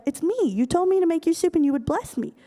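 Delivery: acted-out hurt son insisting; indignant protest. Esau protests to his unknowing father.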